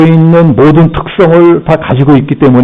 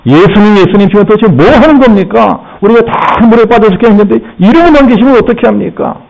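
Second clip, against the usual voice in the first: higher-pitched protest to the teacher; complaining; 5 semitones higher than usual. Acted. Disciples waking Jesus in the sinking boat, complaining. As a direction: plead indignantly, voice raised in pitch. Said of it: "원망불평을 합니다".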